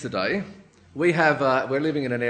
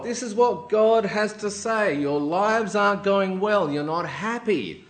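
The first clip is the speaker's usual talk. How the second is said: prophetic proclamation; 4 semitones higher, 4 dB louder than usual. Acted. Haggai gives God's message to the people, proclaiming. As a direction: pronounce it weightily to the crowd. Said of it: "he gives a message from God".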